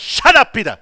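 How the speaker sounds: lightly acted divine interruption; God cutting in. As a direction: cut Peter off abruptly. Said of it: "God just stand up and says".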